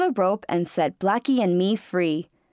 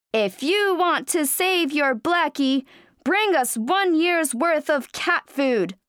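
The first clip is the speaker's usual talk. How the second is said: grotesque monster voice; 7 semitones higher than usual. Acted. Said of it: "The monster cat shouted".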